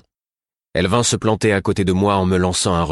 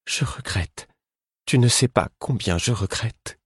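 higher, pained voice for the Fool; a higher voice for the guilt-ridden Fool; the Fool, anguished; 6 semitones higher than usual. A narrator's reading. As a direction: let the Fool's grief rise high in the voice. The Fool apologises.

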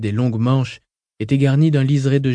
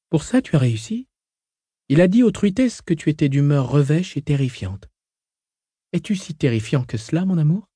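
higher, light teasing woman; young woman voice; 5 semitones higher than usual. Acted. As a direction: voice Hui playful and light. Hui's voice, teasing.

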